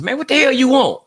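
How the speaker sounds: high, loud, fed-up outburst; exasperated. Acted. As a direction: snap back at someone who keeps pestering you. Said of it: "constantly getting on your nerve".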